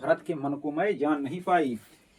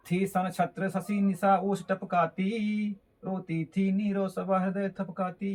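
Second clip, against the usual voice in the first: slow, measured poem reading; slow classroom recitation of verse. Acted. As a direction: recite the verse slowly, line by line.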